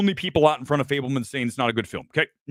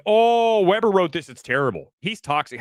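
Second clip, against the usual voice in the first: mocking critics; 3 semitones higher, 4 dB louder than usual. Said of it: "they're gonna be like".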